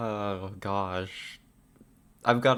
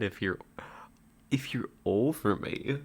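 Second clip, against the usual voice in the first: playful hushed whisper. Pretend. Streamer teasing a viewer, whispering. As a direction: breathe it like a secret. Flirty banter whispered to chat.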